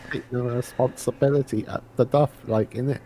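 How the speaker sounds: lightly put-on Cockney with "innit"; a half-hearted Cockney geezer; mock Cockney. Joining the joke, a light mock Cockney accent. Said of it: "terrible Cockney accent".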